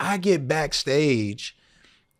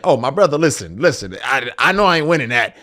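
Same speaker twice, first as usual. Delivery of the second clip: laughing refusal; 3 semitones higher, 4 dB louder than usual. Retold or imitated. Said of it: "And I'm thinking".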